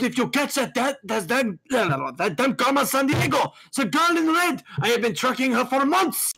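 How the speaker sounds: furious shout about Carmen Sandiego; exasperated shout. Acted. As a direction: yell her name like a chase gone on for months. Angry over the thief.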